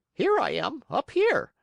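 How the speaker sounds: very high, small calling voice; tiny cricket. Acted. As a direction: call down from the beam. Cricket calls down.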